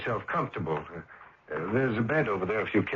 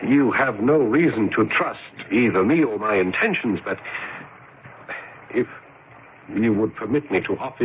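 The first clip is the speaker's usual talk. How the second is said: earnest pleading; 3 semitones higher, 4 dB louder than usual. Acted. Pleading to protect the stranger.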